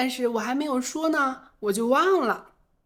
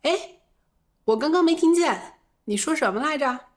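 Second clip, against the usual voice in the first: asking to repeat; 4 semitones higher than usual. Shown as a demonstration. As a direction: brightly ask them to say it again. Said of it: "也可以说".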